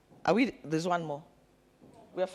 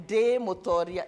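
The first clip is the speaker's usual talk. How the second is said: with power. Shown as a demonstration. Leader coaching the room to say it with power. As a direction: declare it like a conqueror. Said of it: "Say it with power".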